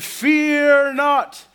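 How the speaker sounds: insist, getting exasperated. Retold or imitated. Kid angel repeating to screaming shepherds, exasperated. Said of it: "And I said".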